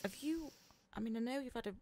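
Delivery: high-pitched, halting suspicion; hesitant questioning mum. Retold or imitated. Mum questioning her daughter after the eyebrow appointment, hesitant. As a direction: imitate a mum cautiously probing, pitched well up.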